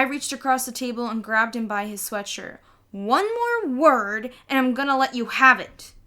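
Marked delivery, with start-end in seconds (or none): 2.9-5.9 furious big brother threatening his little brother. A narrator's reading. Peter threatens Fudge.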